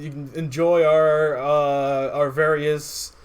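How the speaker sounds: mock tourism ad read; travel ad. Both players riff on a travel ad, mock ad voice. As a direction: sell the city like a cheesy travel commercial. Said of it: "like a regular, like, travel ad".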